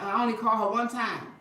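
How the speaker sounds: chuckling through the quote; laughing. Retold or imitated. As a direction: say it while laughing. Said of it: "My husband started stuttering".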